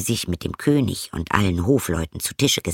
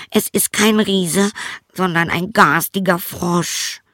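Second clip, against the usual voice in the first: very high princess voice; high-pitched fairy-tale princess; distressed princess; 9 semitones higher than usual. A narrator's reading. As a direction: complain to father in a high voice. Princess answers her father.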